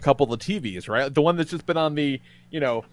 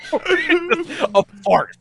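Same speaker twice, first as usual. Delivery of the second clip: laughing; 12 semitones higher, much slower than usual. Real, not acted. Laughing at the restaurant chaos.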